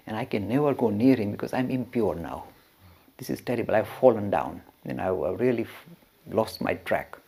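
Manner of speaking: soft, low, dejected retelling; understated despondency; crestfallen. Retold or imitated. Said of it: "he was crestfallen".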